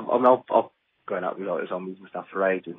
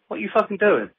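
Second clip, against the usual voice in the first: pitched way up, imitating an irritated friend; mock bickering; 11 semitones higher than usual. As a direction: snap it back like a riled-up mate. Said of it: "they start bitching about it".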